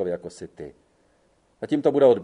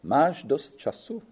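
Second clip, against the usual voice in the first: slow, amused disbelieving echo ending in a rise; slow mocking question with a rising end; 4 semitones higher, slower than usual. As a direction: throw his own words back at him, amused. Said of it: "Balducci se rozesmál".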